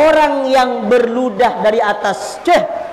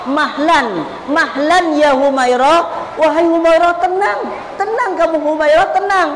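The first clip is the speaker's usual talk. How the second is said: calming wife; 4 semitones higher than usual. Retold or imitated. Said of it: "Jadi kata Rasulullah".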